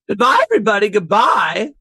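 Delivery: a lightly voiced silly rich man; catchphrase voice. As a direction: deliver it as the signature sign-off. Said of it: "Do your catchphrase".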